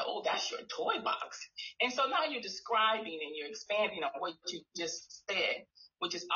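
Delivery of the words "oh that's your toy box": slow, breathy demo line; soft modeling. Shown as a demonstration. Therapist modeling for a child in a soft hush. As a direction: say it gently and slowly. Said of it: "Or you might say".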